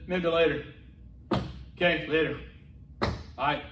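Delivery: "Maybe later" and "Okay, later" with syllables swallowed; slurred shorthand. Retold or imitated. Two Americans signing off casually, slurred shorthand. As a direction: mumble "All right" down to almost one syllable. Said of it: "we can shorten things".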